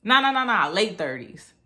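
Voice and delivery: high, brisk man on the phone; ex-cop on phone. Retold or imitated. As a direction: report her to the dispatcher. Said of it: "He was like".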